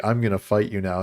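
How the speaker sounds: imitating a calm, understated threat. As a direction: deliver the threat calmly, without raising your voice. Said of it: "And then calmly".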